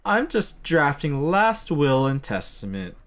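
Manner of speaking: high, drawling put-on voice; smug heckler. Rival jokes about poisoned ingredients, smug high voice. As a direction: deliver a slow, high-pitched sick burn. Voices character's sick burn.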